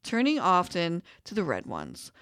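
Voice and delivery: calm storybook reading; story narration. Acted. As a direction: read it like a folk tale. Reads hummingbird folk tale aloud.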